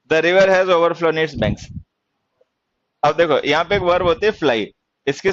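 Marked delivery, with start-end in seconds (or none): 0.1-1.6 very slow, word by word dictation. Shown as a demonstration. Teacher dictating slowly to students, word by word.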